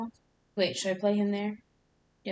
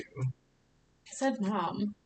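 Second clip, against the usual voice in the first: whiny little sibling; much slower than usual. Pretend. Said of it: "Who are you gonna complain to?".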